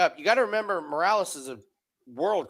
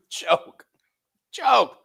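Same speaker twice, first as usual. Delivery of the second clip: laughing; 9 semitones higher, 4 dB louder than usual. Real, not acted. Laughing at joke.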